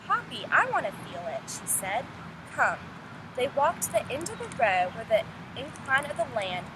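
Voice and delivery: unhurried read-aloud storytelling voice; expressive classroom read-aloud; story narration. Acted. Teacher reads novel aloud to class.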